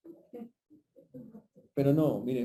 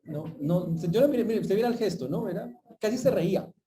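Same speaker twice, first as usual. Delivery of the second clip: imitated complainer; 6 semitones higher, 4 dB louder than usual. Church member complaining about face.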